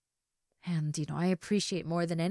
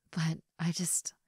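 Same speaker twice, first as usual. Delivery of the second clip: whisper; 2 semitones lower, 4 dB quieter than usual. Acted. Confessing to her ex.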